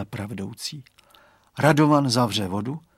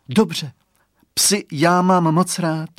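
higher, slow, sugary voice; sweet-voiced customer; 5 semitones higher, 5 dB louder, slower than usual. A narrator's reading. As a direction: coo it sweetly, drawing the words out. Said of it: "odpověděl sladkým hlasem zákazník". (sladký hlas zákazníka)

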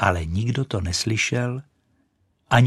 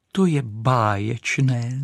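exclaiming; 3 semitones higher, slower than usual. Acted. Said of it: "zvolala Raketa".

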